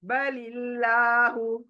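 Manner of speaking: slow बलिल्लाहु, लाम kept thin, not full; thin Allah. Shown as a demonstration. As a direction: draw बलिल्लाहु out with a light लाम. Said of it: "लॉ, अल्लाह मोटा नहीं कर रही हूँ".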